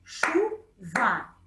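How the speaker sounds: Chuva broken into chu and va, each beat stressed; split into syllables. Shown as a demonstration. Teacher reminding pupils to count the syllables in Chuva.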